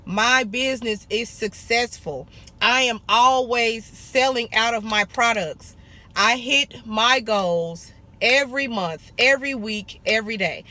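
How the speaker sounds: owner reciting her goals as a mantra; affirmation. Shown as a demonstration. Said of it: "Say your affirmations and mean it when you say it".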